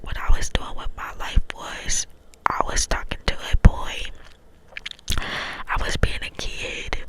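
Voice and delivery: cupped hand whisper, close to the mic. Real, not acted. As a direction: whisper through cupped hands. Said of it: "I'm trying to do the cup whispers".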